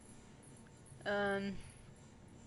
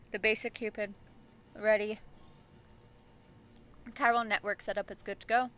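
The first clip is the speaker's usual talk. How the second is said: reading aloud. Acted. Reading game log aloud.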